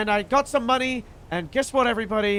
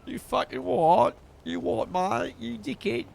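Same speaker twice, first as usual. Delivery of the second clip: lightly voiced posh rough gangster; Hopkins gangster voice. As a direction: sneer it like a posh thug. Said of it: "we suggested the Hopkins voice".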